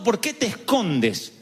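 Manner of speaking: slow reproachful question; mild reproachful question; accusing God. Retold or imitated. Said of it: "el Señor preguntó".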